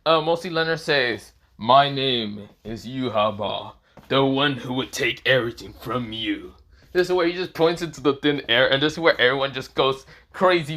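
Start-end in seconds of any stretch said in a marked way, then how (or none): 1.6-6.5 slow, deliberate character declaration; Yhwach. Acted. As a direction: proclaim it word by word, drawn out. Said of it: "says a quote from Yhwach".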